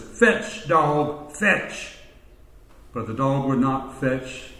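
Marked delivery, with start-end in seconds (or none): 0.0-2.0 lightly acted muscle man, pitched up; rough tone. Bodybuilder orders the dog, mildly rough tone. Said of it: "in a very rough tone of voice".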